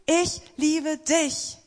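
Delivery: slow, loud and tender, as a loving father; father's tender voice. Acted. Preacher voices the Father speaking to the listener, slow and tender. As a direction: lean in and say it slowly and tenderly, like a father's promise. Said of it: "Vater, der dir sagt".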